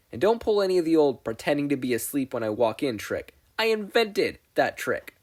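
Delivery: mother with a knowing smirk; lightly voiced teasing mother; teasing mom voice.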